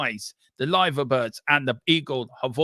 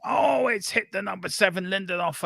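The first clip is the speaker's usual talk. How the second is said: excited shout; 6 semitones higher than usual. Real, not acted. Shot blocked, commentator shouts.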